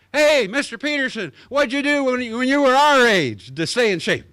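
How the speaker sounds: put-on high, eager kid voice; kids asking. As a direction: play a curious schoolkid raising a hand.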